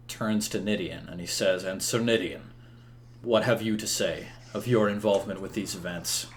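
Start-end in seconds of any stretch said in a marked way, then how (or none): 1.6-6.3 lightly voiced king, lower and softer; measured royal interrogation; questioning king. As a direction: question a knight with quiet, formal authority. Game master voices King Uther.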